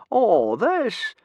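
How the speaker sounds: high, airy brush-off; careless. A narrator's reading. Gobber brushing off Stoic's question, careless and airy. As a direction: shrug it off lightly. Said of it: "said Gobber carelessly".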